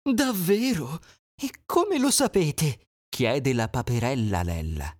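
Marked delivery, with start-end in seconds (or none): 0.0-2.9 higher, wondering duck; duckling voice. Acted. Duckling asking how they know, higher voice. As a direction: ask like a wide-eyed duckling.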